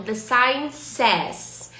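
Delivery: slow, clear English model; teacher reading the sign's phrase slowly. Shown as a demonstration. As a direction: spell it out for the class. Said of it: "A placa diz".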